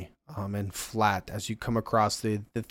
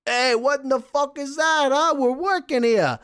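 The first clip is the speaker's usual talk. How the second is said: high, loud outraged guard; 5 dB louder than usual. Acted. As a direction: bark it at the attacker. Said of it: "looks and goes".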